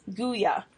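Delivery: Guya, two syllables, GOO then yah. Shown as a demonstration. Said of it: "I looked up how to say it".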